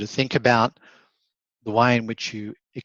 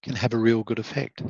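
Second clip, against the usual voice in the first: low, slow, with pauses; faster than usual. Shown as a demonstration. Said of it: "lowering the tone, slowing it down a little, and sometimes pausing".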